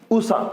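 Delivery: उषा with a brief first vowel; short u. Shown as a demonstration. Teacher repeating the correct word, short vowel. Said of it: "छोटा ऊ आएगा".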